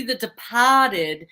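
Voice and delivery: put-on "Departed" in a Boston accent, R dropped. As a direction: say "Departed" the Boston way, as "De-pah-ted".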